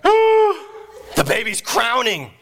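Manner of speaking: slow, high-pitched astonishment; startled alarm. Retold or imitated. Nurse discovering the baby is coming, startled. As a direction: draw it out in shocked alarm.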